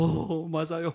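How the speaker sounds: mock-sobbing admission, retold; tearful agreement. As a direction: imitate agreeing through tears. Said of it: "이렇게 또 울고".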